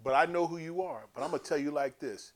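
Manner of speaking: a stern prophet reading the crowd its rules; John laying down the law. Retold or imitated. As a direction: preach each rule at them. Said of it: "He said".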